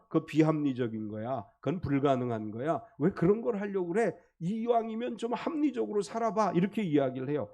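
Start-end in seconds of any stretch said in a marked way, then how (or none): 0.1-6.5 Satan whispering. Retold or imitated. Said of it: "이렇게 우리에게 속삭이죠".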